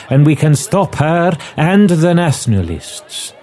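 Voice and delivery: lightly voiced inspector laying out a plan; foreign inspector. Inspector explains the plan to his friend, lightly voiced gravity. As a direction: reason patiently with a doubting friend, in character.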